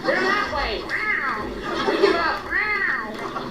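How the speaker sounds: high squeaky meowing cat; whiny cat talking back. Retold or imitated. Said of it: "Cats are like".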